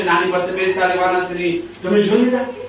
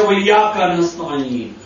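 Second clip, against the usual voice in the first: slow prayer; 4 semitones lower than usual. Retold or imitated. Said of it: "ને આપણે કહે છે".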